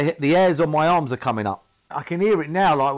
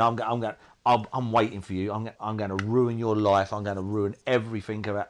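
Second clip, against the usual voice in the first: lower, lightly voiced threatening addiction; low threat as the addiction waiting for you; menacing addiction voice; 5 semitones lower than usual. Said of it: "But he was like the addiction".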